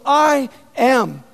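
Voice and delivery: proclaiming. Retold or imitated. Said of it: "He goes".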